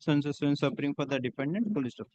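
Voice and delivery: steady, measured dictation of a judgment for the record; dictating a court order. Acted. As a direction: read each phrase out clearly for the stenographer to type.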